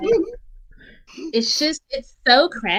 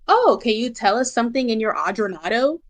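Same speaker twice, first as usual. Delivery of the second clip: lightly voiced bubbly reporter; a hint of Valley Girl, quick; bubbly sorority girl; faster than usual. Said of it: "Homegirl is like".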